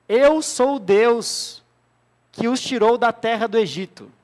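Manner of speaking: slow, solemn voice of God; movie trailer voice. Acted. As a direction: announce it like an epic film. Quoting God's words at Exodus. (voz solene e lenta de Deus)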